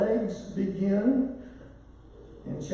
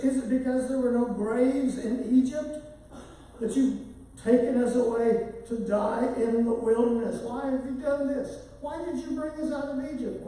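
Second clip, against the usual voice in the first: raised, pleading complaint in mock distress; frightened crying out; 4 semitones higher than usual. Israelites cry out to Moses in the wilderness, acted frightened protest. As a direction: voice climbing higher as the retold protest goes on. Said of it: "cried out to the Lord".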